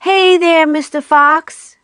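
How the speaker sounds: taunting call from a tractor; yelling. A narrator's reading. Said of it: "yelled Bunce".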